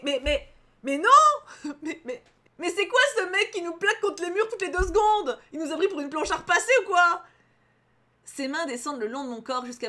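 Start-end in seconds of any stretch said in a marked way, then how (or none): 0.0-7.2 loud, high, spluttering protest; exasperated outburst. Real, not acted. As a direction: rant in comic disbelief. Exasperated reaction to the story. (protestation exaspérée, forte et aiguë)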